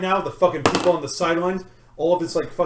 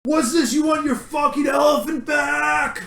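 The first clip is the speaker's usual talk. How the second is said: higher mocking taunt to the crowd; taunting rival; 5 semitones higher than usual. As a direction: goad him like a showman. Rival taunts at rap battle.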